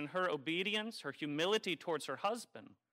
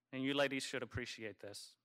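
sarcastic; 3 semitones lower, 4 dB quieter than usual. Real, not acted. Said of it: "I'm being sarcastic".

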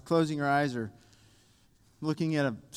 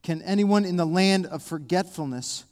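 deliberate psalm questions with pauses between; slow reading. Real, not acted. Preacher reads the psalmist's questions to God, slowly. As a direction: build each question on the last, unhurried. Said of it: "I want to read them slow".

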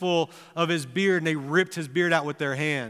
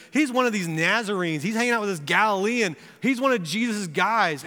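put-on accusing girl; 5 semitones higher than usual. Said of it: "Peter can hear her saying this".

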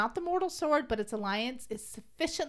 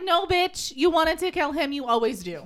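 mock sassy snap; sassy retort; 4 semitones higher, 4 dB louder than usual. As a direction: snap back with attitude. Valentine quoted sassily.

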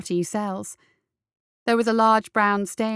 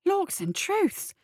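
whispered; 10 semitones higher, much slower than usual. Acted. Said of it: "the jailer whispered".

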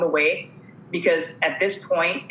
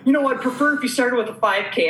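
laughing quote; 7 semitones higher than usual. Retold or imitated. Doctor quoted amid laughter.

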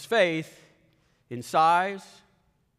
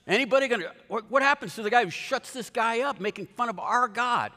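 indignant outburst; 5 semitones higher than usual. Retold or imitated. Preacher voicing David demanding who will silence Goliath, indignant. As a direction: rush it out like a bold young challenger. David's outraged question, retold.

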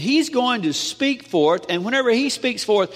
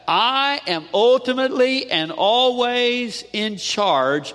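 God's declaration. Acted. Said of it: "and God says".

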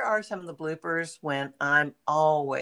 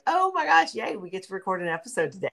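high, delighted squeal on the opening; excited; 3 semitones higher, faster than usual. Acted. Co-host acting out her joy at recording, excited. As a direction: burst out gleefully, then rush on. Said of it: "I'm always like".

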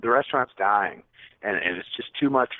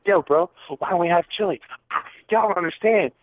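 much higher, heated retold shout; exasperated yelling; 7 semitones higher than usual. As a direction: demand answers from the head chef. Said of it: "I'm like".

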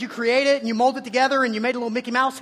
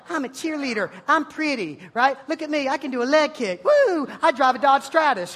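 higher, perky mock cheerleader; 4 semitones higher, 4 dB louder than usual. Preacher mocks students, perky higher cheerleader voice. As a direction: bounce it like a ditzy cheer girl. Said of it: "some of you are like".

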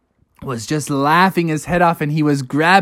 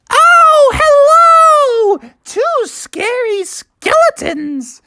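high, drawn-out delighted hello; lizard mother greeting; 4 dB louder, slower than usual. Acted. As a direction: greet tiny visitors in a high, slow voice. Lizard mother greets trick-or-treaters.

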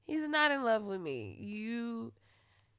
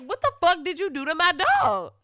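loud, much higher yelling; furious shout; 8 semitones higher, 12 dB louder than usual. Retold or imitated. Yelling at sleeping boyfriend about her dog, furious. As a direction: scream him awake over the dog. Retold fight over dog.

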